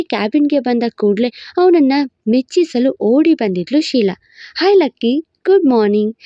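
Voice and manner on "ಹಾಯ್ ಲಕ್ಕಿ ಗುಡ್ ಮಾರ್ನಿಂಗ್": coquettish greeting. Acted. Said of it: "ನುಲಿತಿದ್ಲು".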